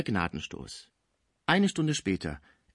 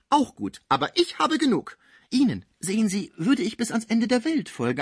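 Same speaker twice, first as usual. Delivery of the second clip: much higher and louder, venom in every word; spiteful shrill outburst; 9 semitones higher, 3 dB louder than usual. A narrator's reading. Cibot lashes out at both friends, higher and louder. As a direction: spit the words like pistol shots.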